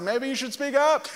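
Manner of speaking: high-pitched mock taunt, not really shouted; taunting insult. Lone Elijah taunting eight hundred fifty prophets, taunting. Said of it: "shouting insults".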